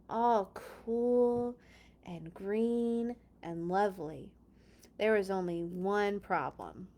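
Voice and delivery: lively, expressive storybook narration; story reading for kids. Acted. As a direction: read it to children with wonder. Reads Bible story to children.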